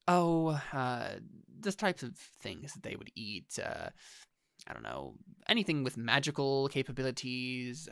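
slow, hesitant Chalmers, slightly hedging; evasive Chalmers. Acted. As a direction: drag it out as if improvising an answer.

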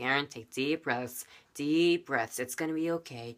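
soothing, reassuring coaching; calming nurse. Retold or imitated. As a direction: imitate a nurse calming a child. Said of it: "help me calm down".

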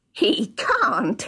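high, gloating villain voice; gloat, on the edge of a snigger; sniggering dwarf. A narrator's reading. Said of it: "sniggered the dwarf".

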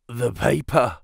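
weakly croaked words, understated; a slight croak from a man just revived. A narrator's reading. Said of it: "croaked a voice behind us".

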